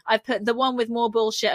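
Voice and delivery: normal talking voice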